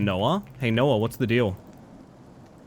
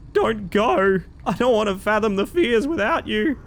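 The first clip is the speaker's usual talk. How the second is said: mock desperate plea; 9 semitones higher than usual. Pleading dramatically with departing dad.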